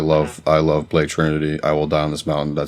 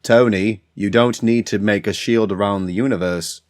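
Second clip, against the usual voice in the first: a rock singer as Blade; slower than usual. Pretend. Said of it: "Paul Rudd's John Lennon as Blade".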